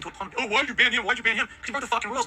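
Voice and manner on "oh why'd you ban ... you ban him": higher, nagging mock question; sarcastic imitation of a whiny viewer; mocking whine. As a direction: parody a pestering chatter. Mocking chatters questioning the ban.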